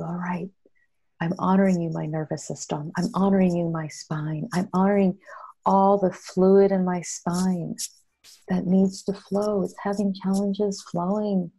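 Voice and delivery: honor each part of the body, firmly; honoring affirmations. Shown as a demonstration. Healer showing how she speaks to her spine, emphatic. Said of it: "I immediately go to".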